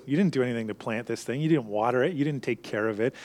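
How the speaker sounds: usual speaking voice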